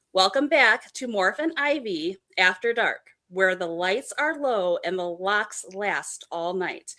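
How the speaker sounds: slow, smooth radio host read; unhurried late-night show intro. Shown as a demonstration. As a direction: ease through it like an after-dark DJ. Repeats the radio line slowly.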